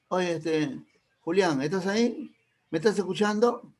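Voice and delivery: rising, questioning call to a silent listener; checking the line. Retold or imitated. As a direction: make sure he's still there. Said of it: "De repente". (preguntando si sigue en la línea)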